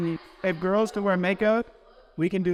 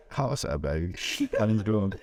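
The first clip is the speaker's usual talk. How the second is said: tired phone voice; 8 semitones lower than usual. Shown as a demonstration. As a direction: answer like you just woke up. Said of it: "answer the phone like you're tired".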